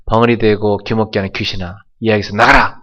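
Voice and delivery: firm rising command to the demon; commanding shout. Retold or imitated. Preacher voicing Jesus casting out the demon, commanding shout. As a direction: order the spirit out, voice building.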